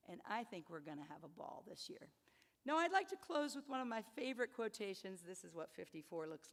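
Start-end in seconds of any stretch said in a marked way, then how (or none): 0.1-2.1 whisper. Real, not acted. Confiding aside to students.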